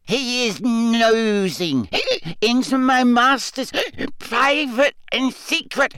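a sobbing little elf clinging to loyalty; crying drunk elf. A narrator's reading. Winky weeps at Harry over her master's secrets.

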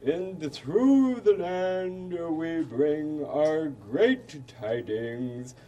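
slow, grand royal proclamation; formal royal speech. Acted. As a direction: proclaim it like a pompous king.

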